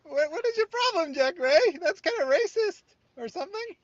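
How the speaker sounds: hammed-up, piercingly high complaint in falsetto; mock high-pitched voice. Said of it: "when it talks like this?".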